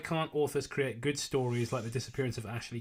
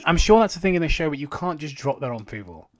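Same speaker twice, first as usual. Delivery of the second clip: incredulous; 7 semitones higher, 8 dB louder than usual. Real, not acted. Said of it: "way too fucking bizarre".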